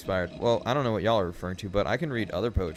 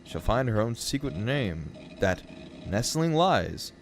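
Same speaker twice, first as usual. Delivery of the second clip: lilting, deliberate verse reading; lyrical poem recital. Acted. Streamer reading A Valentine to chat, lilting and deliberate. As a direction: recite in measured phrases with rising and falling tune.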